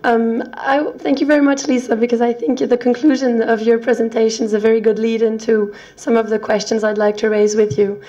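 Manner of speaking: hoarse, croaky lost voice; speaking through a croaky throat. Real, not acted. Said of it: "bear with my croaky voice".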